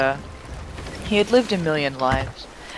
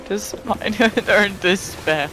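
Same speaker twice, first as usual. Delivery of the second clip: laughing; 4 semitones higher than usual. Real, not acted. Laughs while reading sad line.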